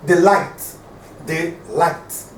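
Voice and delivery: "The light" with weight on "light", said twice with a pause; stress on LIGHT. Shown as a demonstration. Teacher showing the stressed syllable, "The light" stressed on "light". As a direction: lean on "light" after a short "The". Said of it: "The light is stressed".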